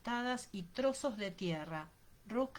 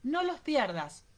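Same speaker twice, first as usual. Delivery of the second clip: slow, raised, firm order; breathless order; 4 semitones higher, 6 dB louder, slower than usual. A narrator's reading. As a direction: order firmly, a touch breathless. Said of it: "ordenó sin aliento". (orden firme y lenta)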